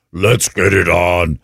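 hint of a slow, deep villain impression; Darth Vader. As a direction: draw it out slowly in a low villain voice. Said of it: "in a Darth Vader voice".

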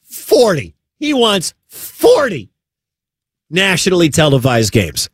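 high-pitched disbelief, stretched out; incredulous. Real, not acted. Host repeating what the agent wants for his client, incredulous. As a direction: land the number high in amazement, then let it fall.

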